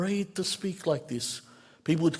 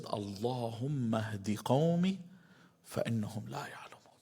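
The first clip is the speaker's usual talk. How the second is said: whispered prayer; 5 semitones lower, 7 dB quieter than usual. Retold or imitated. Prophet praying for his people.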